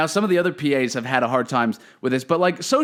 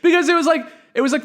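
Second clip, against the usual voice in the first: laughing; 11 semitones higher than usual. Real, not acted. Still laughing while retelling.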